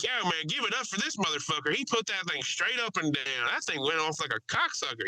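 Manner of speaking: imitated loudmouth's mild yell; mock yelling. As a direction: hype up the pilot as the rowdy passenger. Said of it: "He's, like, yelling".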